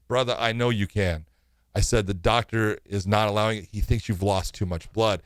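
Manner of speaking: low, gentle letdown; retold calm reassurance. Retold referee breaking bad news.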